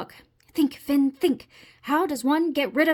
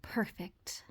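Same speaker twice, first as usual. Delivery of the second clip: whispered; 6 semitones lower, 15 dB quieter than usual. Acted. Finn's whispered final word.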